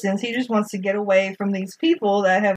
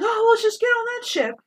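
casual Finn; 12 semitones higher than usual. Retold or imitated. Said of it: "and he's like".

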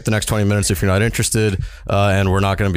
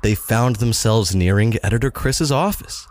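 story narration. A narrator's reading.

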